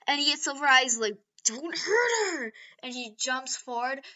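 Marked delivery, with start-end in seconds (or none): 1.4-2.5 slow, loud, high cry; protective shout. Retold or imitated. Deku shouting to protect Uraraka.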